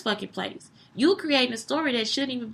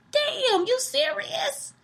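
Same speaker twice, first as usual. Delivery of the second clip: retold disbelief; 13 semitones higher, 4 dB quieter, much slower than usual. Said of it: "I was like".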